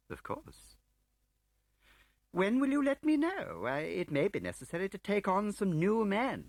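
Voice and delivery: grinning bureaucrat, all false cheer; smug Marston. Acted. Voices Marston.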